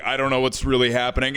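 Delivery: lightly mimicked nervous straight dude; quick mumbled line with the camp gone; straight-guy voice. Heckler lost on stage, straight-guy imitation. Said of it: "He went straight".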